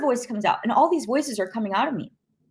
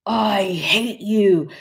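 drawn-out, guttural demon voice; slow, angry growl of a demon; demonic voice; much slower than usual. Retold or imitated. Demon attacking the mother on the phone, guttural demonic voice. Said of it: "anger, guttural, demonic voice".

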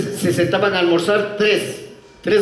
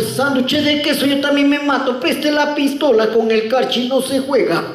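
much higher, slow Pastuso whine; squeaky Pastuso, high and slow; mock Pastuso accent, high and drawn out; 8 semitones higher, slower than usual. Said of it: "Y el pastucito abre".

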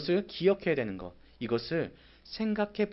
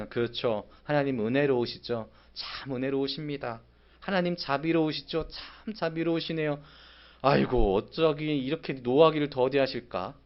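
sarcastic praise. Acted. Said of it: "굉장히 비꼬는 이야기입니다".

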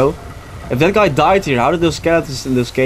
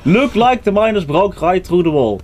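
mock Dutch accent reading; hammy Dutch accent, a bit higher; 3 semitones higher than usual. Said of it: "your Dutch accent is getting worse".

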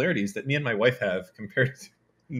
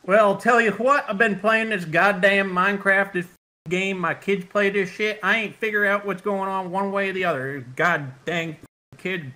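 Southern hick accent; 4 semitones higher, 5 dB louder than usual. Shown as a demonstration. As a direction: rant like a Southern hick baffled by a game. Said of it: "like a, like a hick".

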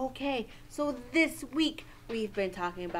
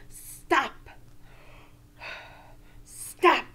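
firm stop; 3 semitones higher than usual. Shown as a demonstration. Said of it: "and say".

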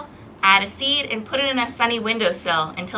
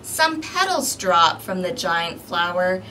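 put-on lively read-aloud for small children; storybook narration; 3 dB louder, slower than usual. A narrator's reading. Librarian reading a picture book to kids, lively narration. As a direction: read the story to the little ones.

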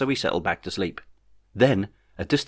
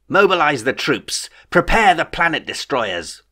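higher, louder, slow commanding proclamation; grand declaration; 6 semitones higher, 4 dB louder, slower than usual. A narrator's reading. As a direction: declare it like a tyrant giving orders. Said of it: "he declared".

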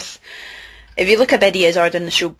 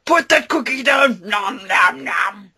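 Schwarzenegger and Cookie Monster; 2 semitones higher, slower than usual. Acted. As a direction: bark the order like an action hero. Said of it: "Cookie Monster meets Arnold Schwarzenegger".

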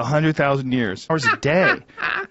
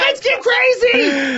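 high shouting party bro; rowdy party animal; 3 dB louder, slower than usual. Pretend. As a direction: whoop it up like a frat bro. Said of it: "I talk like you".

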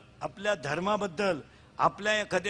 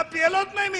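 much higher plea; high pleading boy; 9 semitones higher than usual. Retold or imitated. Boy to the doctor, high pleading. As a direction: whine it like a scared boy. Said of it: "तो म्हणला".

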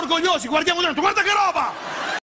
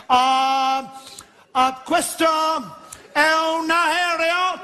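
put-on high, slow English-accented Italian; slow English-accented announcement; 7 semitones higher, much slower than usual. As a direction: speak like an English flight attendant. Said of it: "inglese sempre".

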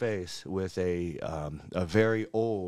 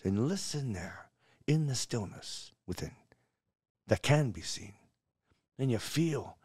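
measured Scottish verse recital with long pauses; put-on Scottish bard, savouring each phrase; Scottish accent. Shown as a demonstration. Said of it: "it sounds better in a Scottish accent".

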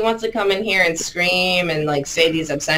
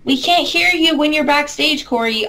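calling out to him; 9 semitones higher than usual. Real, not acted. Calling to Corey backstage.

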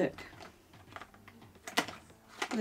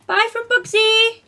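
high, slow whiny puppy voice; the pet's own little voice; voicing the dog; 13 semitones higher, 10 dB louder than usual. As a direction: speak as the dog saying goodbye. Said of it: "voicing the dog".

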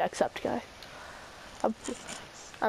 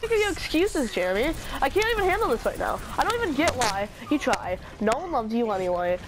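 mock roasting; 3 semitones higher than usual. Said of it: "I'm just roasting myself".

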